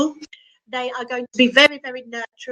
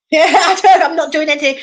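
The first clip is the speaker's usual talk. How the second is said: laughing; 5 semitones higher than usual. Real, not acted. Laughing at her phone calculator.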